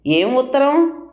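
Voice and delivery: slightly surprised. A narrator's reading. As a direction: ask with a touch of surprise. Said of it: "అని అడిగాడు కాస్త ఆశ్చర్యంగా". (కాస్త ఆశ్చర్యంగా)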